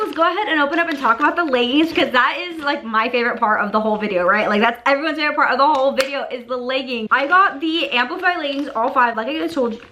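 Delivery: fast, wired and jittery; rushing on espresso; too much caffeine. Real, not acted. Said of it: "I may have had four shots of espresso today".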